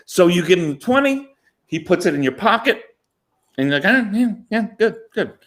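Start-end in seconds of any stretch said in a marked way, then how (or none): 3.9-5.3 mock excited. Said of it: "I'm all excited".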